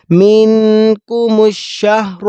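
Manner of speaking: منکم الشہر slow, ش and ہ said full; heavy ha. Shown as a demonstration. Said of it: "بھاری آواز میں". (بھاری آواز میں الشہر)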